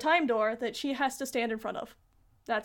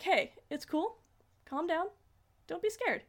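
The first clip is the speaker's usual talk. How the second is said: gentle, slightly raised comforting voice; calm down a scared child, unhurried; acted-out tender reassurance; soothing reassurance; 4 semitones higher, 3 dB quieter than usual. Pluto calms frightened Chibiusa.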